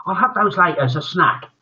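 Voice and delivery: put-on high cheeky boy; pleased with himself. Cheeky boy pockets sweets.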